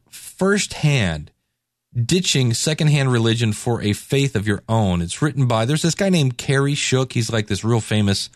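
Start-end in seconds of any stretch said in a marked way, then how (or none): 0.1-5.0 slow title read. Shown as a demonstration. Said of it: "book title announced slowly".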